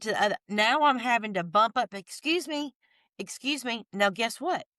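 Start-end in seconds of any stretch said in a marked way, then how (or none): 1.9-3.8 higher, softened voice for a retold politeness; lightly acted "pardon me" to strangers; polite squeezing past. Shopper edging past people in the aisle, politely.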